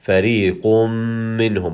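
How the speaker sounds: فَرِيقٌ مِّنْهُمْ with the nun sound merged into a long nasal mim. Shown as a demonstration. Teacher shows students how to join the words with a nasal mim. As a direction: run فَرِيقٌ straight into a held mim of مِّنْهُمْ. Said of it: "We say".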